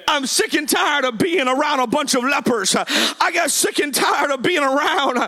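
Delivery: rhythmic, driving sermon storytelling; fired-up preaching. Real, not acted. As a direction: preach the plea in urgent, punched phrases. Preaching at full force.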